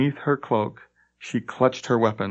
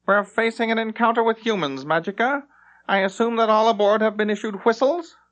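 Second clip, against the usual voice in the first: bland voice; 11 semitones higher than usual. Acted. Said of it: "in a bland voice, as if nothing were amiss".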